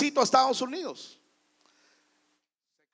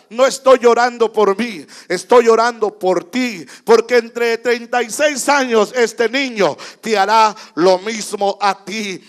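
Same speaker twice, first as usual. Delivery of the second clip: advertencia fuerte; 2 semitones lower, 7 dB louder than usual. Acted. Clímax del anciano al hijo.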